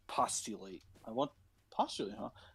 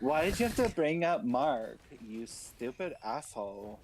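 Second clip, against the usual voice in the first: meme quote. Retold or imitated. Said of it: "the meme".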